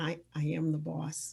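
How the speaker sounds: quiet muttering under breath. Retelling a reply to people at a company: retelling saying it quietly under breath. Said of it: "I'll say quietly under my breath".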